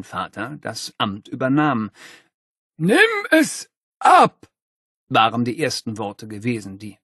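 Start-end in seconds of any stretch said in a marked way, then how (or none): 2.8-4.5 slow high stern command; stern principal. Acted. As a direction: order it like a strict principal. Stern principal orders portrait removed.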